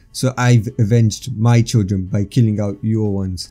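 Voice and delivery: slow, deliberate delivery; measured, unhurried statement; said slowly. Acted. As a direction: draw the words out evenly. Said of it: "Naruto said slowly".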